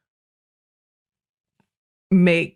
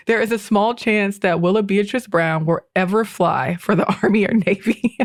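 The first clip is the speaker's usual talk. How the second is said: reading a quote, breaking into a laugh at the end; real laugh creeping into the read-out line; laughing while reading; 3 semitones higher than usual. Real, not acted. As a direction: let amusement crack the quote. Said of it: "Sorry for laughing".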